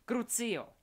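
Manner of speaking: high, very loud spell shout; shouted curse. A narrator's reading. Delphi tortures Scorpius to force Albus, shouted spell. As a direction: fling the curse out in a scream.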